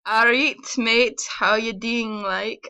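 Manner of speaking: mock British "all right mate"; a lightly put-on British accent, drawn out. Shown as a demonstration. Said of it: "something for the Americans to say".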